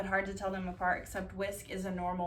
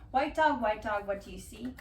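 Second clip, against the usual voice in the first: put-on reading to children. Reading picture book aloud.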